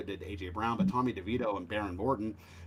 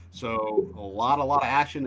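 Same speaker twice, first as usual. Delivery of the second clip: hammed-up line from Rounders; quoting Rounders; 6 dB louder than usual. Bettor tells Tony about a lot of action, quoting Rounders loudly. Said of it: "as they say in the movie Rounders".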